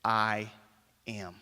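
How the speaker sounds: low and fading very soft; hushed declaration. Retold or imitated. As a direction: drop to a low hush on am. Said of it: "Jesus said".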